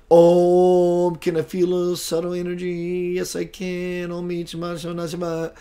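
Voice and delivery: hushed mock mystic chant; mocking new-age voice. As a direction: parody someone faking a subtle energy. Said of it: "It wasn't that".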